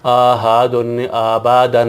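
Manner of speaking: احدن dragged out and slurred into the next word; احدن کا غلط مجہول تلفظ; wrong stretched pronunciation. Shown as a demonstration. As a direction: demonstrate the mistake by drawing احدن out too long. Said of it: "نہیں کہنا، یہ اس طرح مجہول ہو جاتا ہے".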